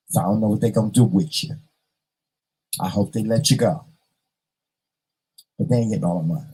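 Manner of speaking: hushed, half-joking heartfelt goodbye; mock tender farewell. Pretend phone call to mama.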